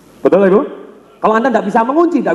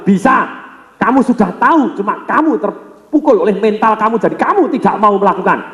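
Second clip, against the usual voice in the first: Bruce Lee voice; 3 semitones higher than usual. Retold or imitated. Bruce Lee urging the champion, mild teacherly insistence. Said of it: "Bruce Lee bilang".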